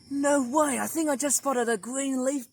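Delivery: birdwatcher's thrilled gasp of a find; surprised. Real, not acted. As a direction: burst out in delighted disbelief. Spotting a green leaf bird.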